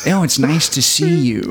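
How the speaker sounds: lightly voiced Christian Slater. Friend acting out the grocery store meeting, slow and smooth. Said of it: "you're like".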